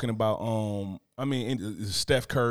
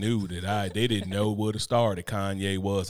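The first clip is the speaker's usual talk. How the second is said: slow, lightly voiced monotone narrator; monotone narrator impression; 3 semitones lower, slower than usual. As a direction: drone it slowly with no inflection. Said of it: "if you think my voice monotonous, this dude right here is wild".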